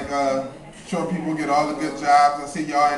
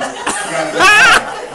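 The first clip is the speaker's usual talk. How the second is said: mock crying; 11 dB louder, much slower than usual. Denying he cried, voice cracks.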